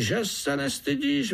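very high tiny-fly scolding cry; high insect reproach; fly groom calling out. A narrator's reading. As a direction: shame him in a squeaky voice.

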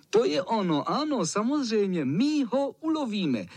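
high, excited cheering voices. Acted. Boys cheering about hunting the cat, high and excited. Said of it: "jásali ostatní".

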